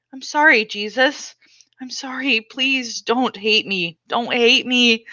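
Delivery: tearful prayer. Acted. Girl crying to Jesus in her hiding place, whispered pleading. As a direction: beg forgiveness through tears.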